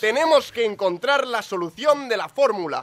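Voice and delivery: overacted crisis, shouting for the answer; hammed-up drama. Mock dramatic crisis scene.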